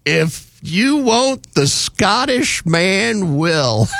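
drawn-out mock holler; mock yelling girls. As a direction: tease the men with the girls' line. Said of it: "the girls yelling out".

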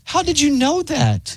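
high, slow, drawn-out mock amazement; acted disbelief. Host fakes amazement at the co-host's guess, high and slow. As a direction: stretch it out, feigning shock. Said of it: "Your acting was so good".

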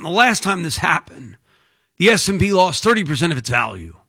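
lightly voiced doom-laden promo warning; mock sales pitch. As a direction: pretend to sell a dire market warning. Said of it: "I have the voice for it".

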